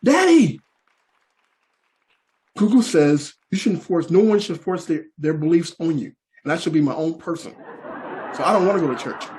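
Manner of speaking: lightly voiced sassy daughter; daughter's whine. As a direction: whine to get out of church. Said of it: "she says".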